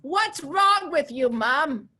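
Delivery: put-on high, slow, exasperated kid; teenage kid. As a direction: mimic a fed-up teenager. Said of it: "My kid goes".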